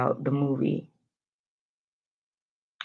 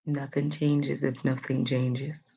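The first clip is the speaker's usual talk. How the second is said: slow sincere quote; 6 dB quieter, slower than usual. Shown as a demonstration. Host reading the quote of the day, slow and sincere. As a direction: quote read slowly and softer. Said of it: "That's the quote".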